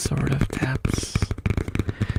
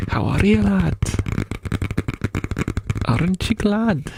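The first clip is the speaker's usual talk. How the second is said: put-on higher, lilting Scottish accent; Scottish elf; 5 semitones higher than usual. Elf greeting a lad, in a raised Scottish voice. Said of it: "Scottish elf versus Texan elf".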